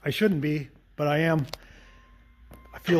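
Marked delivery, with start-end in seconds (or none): 0.0-1.5 real, mildly winded talk after a whew; slightly out of breath. Real, not acted. Car fixer telling viewers he is winded, slightly out of breath. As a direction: let a little breathlessness show between phrases. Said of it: "I'm slightly out of breath".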